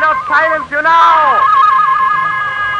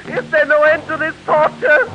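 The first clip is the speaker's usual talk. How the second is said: tormented rising cry; 3 dB quieter than usual. Acted. Madman tormented by drumbeat.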